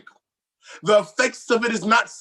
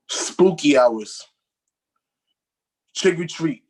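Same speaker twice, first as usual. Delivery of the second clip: spooky voice; 4 semitones lower than usual. Pretend. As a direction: recite it like a ghost story. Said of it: "do your poem in a spooky voice".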